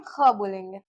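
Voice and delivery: "ख" rasped in the throat; throaty KH demo. Shown as a demonstration. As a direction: say "ख" as a fricative x, Urdu style. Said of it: "मैं जो बोल रही हूँ उस पे आप लोग ध्यान दीजिएगा".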